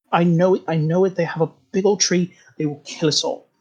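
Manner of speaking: lightly voiced scared sibling begging to leave; mousy whisper. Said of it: "very mousily, perks up and whispers".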